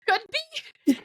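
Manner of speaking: choked, broken attempt to speak; about to lose it. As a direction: imitate barely holding back laughter. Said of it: "I'm about to lose it".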